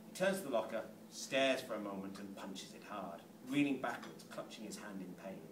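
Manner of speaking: low-pitched reading of stage directions. A narrator's reading.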